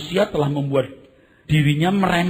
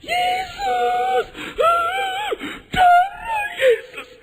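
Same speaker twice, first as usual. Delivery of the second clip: very high wailing shriek; loud, drawn-out mock terror; imitated charismatic believer; 3 dB louder, much slower than usual. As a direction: scream a desperate prayer, hammed up. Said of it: "Itu orang karismatik pasti".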